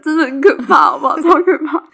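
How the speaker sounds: loud, emphatic retelling of the fright. Real, not acted. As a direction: hammer home how scary it was. Reliving the scary hotel night.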